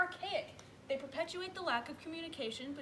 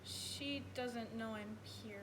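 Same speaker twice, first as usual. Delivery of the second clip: sheepish admission; 4 semitones lower, 6 dB quieter, much slower than usual. Acted. Sheepish confession to the mother-in-law coach.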